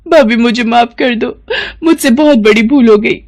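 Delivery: pleading through mock sobs; a half-sobbing plea for forgiveness; tearful apology. Pinki begs her sister-in-law's forgiveness, hammed-up crying. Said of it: "फूट फूट कर रोने लगती है".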